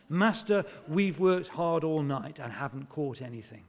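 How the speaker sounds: exasperated fisherman pushing back; frustrated. Retold or imitated. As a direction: let the tiredness of a wasted night show. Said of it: "hear the frustration in Simon's voice".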